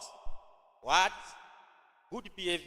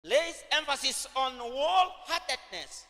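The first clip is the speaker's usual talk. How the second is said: emphatic repeat; 4 semitones higher than usual. Shown as a demonstration. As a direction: repeat the notes again, pitched up and projected. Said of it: "Acha nirudie tena".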